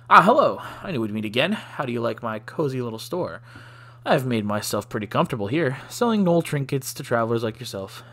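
put-on light Russian accent for the shopkeeper; a hint of Russian in every line; lightly voiced Russian shopkeeper. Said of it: "I've decided to give him Russian accents".

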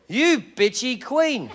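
you bitchy queen, drawn out and hushed; a slow, soft, deadpan put-down; slow quiet insult. Retold or imitated. Comedian to rude seatmate, slow hushed insult. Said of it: "turned to him and went".

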